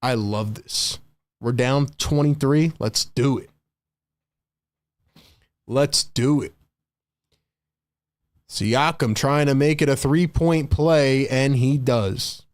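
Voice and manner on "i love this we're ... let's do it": imitating the Pacers enjoying being down; mock Pacers players. Pacers players relishing a big deficit, lightly mock-gleeful. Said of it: "They're like".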